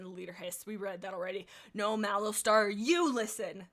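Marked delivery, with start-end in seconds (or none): 1.7-3.7 louder spat retort. Acted. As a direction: snap it back at the leader. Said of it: "the white she-cat spat".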